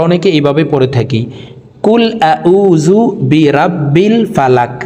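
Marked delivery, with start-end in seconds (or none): 1.9-4.8 কুল আউযু বিরাব্বিল ফালাক read plainly, no tajweed; the common incorrect way; wrong recitation. Shown as a demonstration. Teacher shows students the wrong reading, plain. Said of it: "এইভাবে যদি অশুদ্ধ পড়ি".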